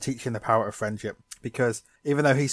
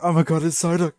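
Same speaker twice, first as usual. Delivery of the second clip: higher and louder gushing over the duck; mock excited Misty; 5 semitones higher, 6 dB louder than usual. Misty spotting Psyduck, mock overjoyed. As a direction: squeal it like she just spotted her pet. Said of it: "she's like".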